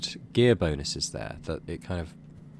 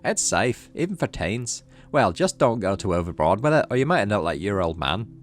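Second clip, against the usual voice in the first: lightly raised, easygoing dad; chuckling dad; 4 dB louder than usual. Acted. Dad reassuring his teen it's safe, easygoing amused voice. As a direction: keep the dad relaxed and amused. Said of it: "Your dad chuckles".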